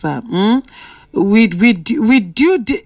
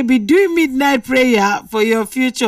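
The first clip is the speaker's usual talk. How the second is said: higher, mocking echo of the words; higher, teasing echo of "Be doing midnight prayer for your future"; incredulous repeat; 4 semitones higher than usual. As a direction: repeat it back in amused disbelief. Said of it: "I don't even say".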